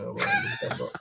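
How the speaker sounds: squeaky mock innocence; high silly voice. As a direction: play dumb in a squeak. Playing dumb about the bidets.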